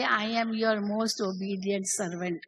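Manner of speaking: slow, humble and bowing; a slow, deferential line of the master; slow humble quote. Retold or imitated. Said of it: "बाबा झुकते थे और कहते थे".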